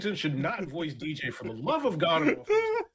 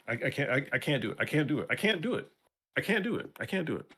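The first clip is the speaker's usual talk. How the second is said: exasperated; faster than usual. Real, not acted. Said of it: "I'm having a moment".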